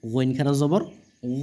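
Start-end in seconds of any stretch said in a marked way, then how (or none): 1.4-1.4 গ held as a long "gho"; drawn-out vowel. Shown as a demonstration. Quran teacher showing one-alif length, গ drawn out. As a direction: stretch গ out evenly. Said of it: "একালিফ করে কিন্তু টেনে পড়তে হবে".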